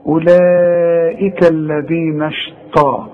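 أولئك الذين اشتا- recited slowly; slow Quranic reading; slow recitation. Shown as a demonstration. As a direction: chant slowly and cut off. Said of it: "قلت إيه؟".

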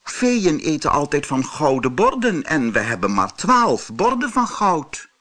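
lightly voiced worried queen. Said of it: "zei de koningin".

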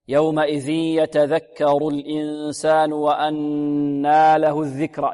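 slow, measured tajweed recitation; Quran recitation. Shown as a demonstration. Teacher models a verse for students, slow recitation. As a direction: recite with drawn-out vowels.

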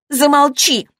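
резкий громкий выкрик, высоко; сорваться и крикнуть, чтобы замолчала; вспышка гнева. A narrator's reading. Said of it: "взорвалась Лана". (Лана взрывается и кричит подруге «Замолчи!», в ярости)

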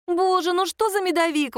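high, bright exclamation of delight; delighted exclaim. A narrator's reading. Nadya tastes the honey cake and exclaims, high and delighted. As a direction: gush over the cake. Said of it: "воскликнула Надя".

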